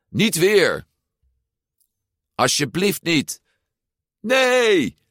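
high, alarmed cries; shrieking children. A narrator's reading. Children dodge the cups of water, shrieking in high protest. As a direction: cry out in protest, pitched well up. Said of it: "roepend en gillend".

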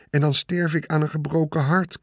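mean it from the heart; desperate plea. Acted. Wilbur begging the rat, sincere desperate plea. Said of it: "zei Wilbur wanhopig".

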